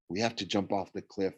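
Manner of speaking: soft, hushed instruction; quietly. A narrator's reading. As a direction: confide the plan under your breath. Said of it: "I told her quietly".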